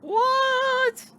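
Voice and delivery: high, loud startled yelp; shocked what. Real, not acted. Gamer hearing the game news, loud startled what. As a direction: blurt it out in disbelief.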